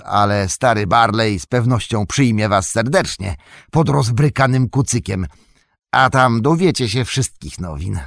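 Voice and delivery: a relieved gatekeeper talking through the rain. Acted.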